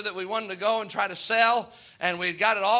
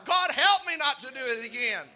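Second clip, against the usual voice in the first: crying out to God; 4 semitones higher than usual. Pretend. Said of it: "Lord, that's not my desire".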